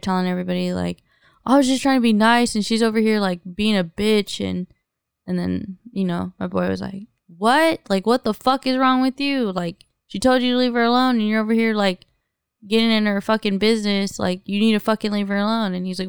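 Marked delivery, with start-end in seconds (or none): 1.5-4.4 huffy. Retold or imitated. Offended guy complaining to everybody about her, mildly huffy. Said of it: "he got all huffy and puffy". 7.4-15.7 mildly heated, incredulous telling-off; retold confrontation. Friend defending her against the pestering guy, mildly indignant.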